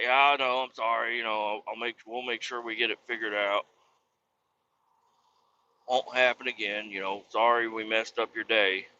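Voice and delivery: soft mock-soothing boss; apologetic. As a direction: imitate a boss calmly smoothing things over. Imagined boss apologizing to upset worker.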